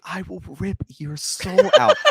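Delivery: imitating possessed girl. Retelling the girl's threat to co-host, mock menacing. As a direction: quote the girl's threat with hammed-up emphasis, half laughing. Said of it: "she's still, like, in regular human form. She's like".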